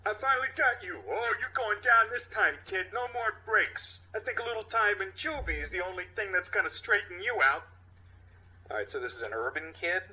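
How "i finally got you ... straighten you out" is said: loud, higher gruff cop voice; tough cop. Acted. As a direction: bark at the kid like a hard-nosed cop. Cop character scolds kid.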